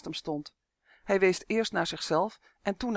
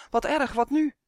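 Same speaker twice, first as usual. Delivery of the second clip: high, louder cry of alarm; acted helpless dismay, raised voice; dismayed elf; 8 semitones higher, 5 dB louder than usual. A narrator's reading. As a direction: fret aloud in a pitched-up elf voice. Elf realises boy is paralysed.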